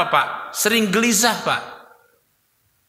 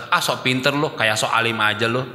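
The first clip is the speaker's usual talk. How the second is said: lower, sneering comeback; mock scornful retort; 6 semitones lower than usual. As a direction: brush off the advice with scorn. (balasan mengejek, nada rendah)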